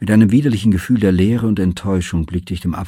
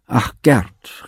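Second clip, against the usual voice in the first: tearful cry; 5 semitones higher, 3 dB louder than usual. A narrator's reading. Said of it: "rief sie".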